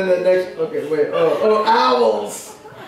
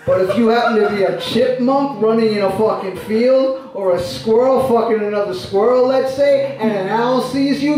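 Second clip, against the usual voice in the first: poet guy's voice. Acted. A lightly done poet voice reciting his nature poem, indignant. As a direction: read the poem as the odd poet character, ranting at squirrels. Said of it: "this guy who talks like this".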